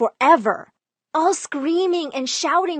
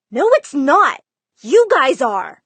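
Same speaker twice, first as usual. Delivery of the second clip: louder defiant yell; yelling back; 3 semitones higher, 7 dB louder than usual. Retold or imitated. Daughter yelling back at her family, louder. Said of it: "and I yelled back".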